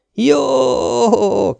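sudden high excited yell; shouted. A narrator's reading. Young medic shouting his eager yes into the phone. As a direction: call it out, eager and loud. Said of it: "kiáltotta el magát a srác".

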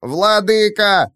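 high, slow squeaky creature cry; squeaking creature. Acted. Captured creature squeaks for its master. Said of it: "пищал Зубан".

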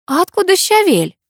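put-on a light touch of girlish curiosity; curious Masha. A narrator's reading. Masha asking her husband, mildly curious young voice. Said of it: "полюбопытствовала Маша".

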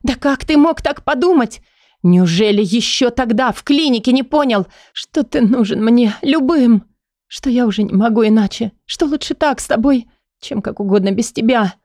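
she finally breaks and pours it out; Leila breaking down. Acted. Лейла наконец срывается и умоляет Кая, высоко и надрывно. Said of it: "Наконец сорвалась она".

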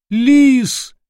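high, loud wailing cry for help; a terrified howl of a name. Acted. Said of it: "взвыл несчастный". (отчаянный вопль)

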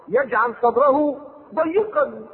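very slow chanted verse; Quranic recitation. Acted. Preacher reciting to congregation, slow chant. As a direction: stretch the last word out.

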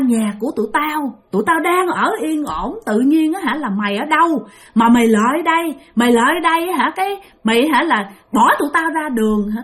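put-on a spirit snarling threats at the old woman; furious ghost. Possessed ghost scolds the grandmother.

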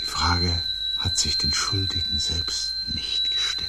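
whispering bitterly about the guilty. Acted.

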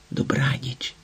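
soft hushed goodnight to a photo; whispered tender goodnight. A narrator's reading. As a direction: breathe it out gently, barely voiced. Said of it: "прошепотіла світлині".

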